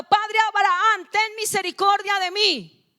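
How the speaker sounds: rich man crying out loud, pleading for mercy. A narrator's reading. Preacher voicing the rich man begging Abraham, loud plea.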